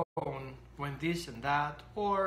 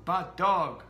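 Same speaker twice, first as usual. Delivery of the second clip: louder bad dog; scolding dog; 7 dB louder than usual. Owner scolding dog over the sock, loud. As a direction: snap it at the dog.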